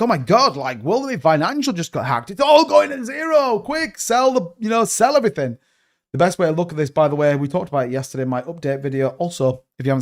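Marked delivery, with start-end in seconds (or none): 0.0-5.6 higher-pitched imitation of panicked sellers; half-joking alarm, urging everyone to sell; mock freaking out. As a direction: act out a mild market panic. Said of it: "people are freaking out".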